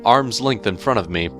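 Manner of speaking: usual speaking voice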